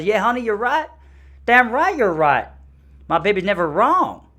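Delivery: high, loud mock redneck whoop; redneck husband. Husband backing up his wife, loud hammed-up imitation. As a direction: holler agreement like a hammed-up southern husband. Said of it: "And he goes".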